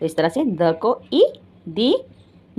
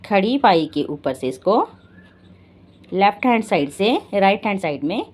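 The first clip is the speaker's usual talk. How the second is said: slow explaining. Shown as a demonstration. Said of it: "ई की मात्रा का साइन क्या है".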